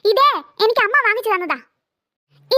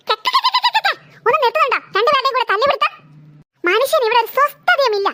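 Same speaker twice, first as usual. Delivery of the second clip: exasperated yell. Acted. Mother shouts over her quarrelling daughters to make them stop.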